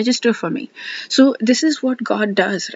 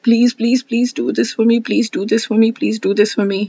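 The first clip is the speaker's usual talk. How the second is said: louder, insistent pleading; pressured begging; 3 semitones higher, 3 dB louder than usual. Shown as a demonstration. Speaker shows her old begging prayer to God, pleading and insistent. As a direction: press hard with please after please. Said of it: "kind of putting pressure on God".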